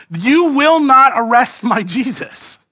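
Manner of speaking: high, loud, drawn-out defiance; acted defiant cry. Peter swinging his sword to protect Jesus, acted defiance. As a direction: proclaim it like a zealous defender.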